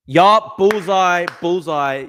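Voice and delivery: loud, high celebratory call; triumphant. Real, not acted. Streamer after a perfect guess in the game, triumphant. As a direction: crow over a perfect hit, easing off.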